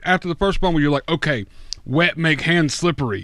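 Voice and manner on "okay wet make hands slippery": put-on broken English in a light Russian accent; caveman Russian accent. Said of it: "you doing your Russian accent again?".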